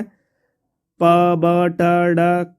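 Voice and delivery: "प, ब, ट, ड" as isolated, drawn-out syllables, very slow; plosive sounds demo. Shown as a demonstration. Teacher showing plosive sounds, "प, ब, ट, ड" slowly sounded out. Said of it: "आगे प्लोसिव साउंड है".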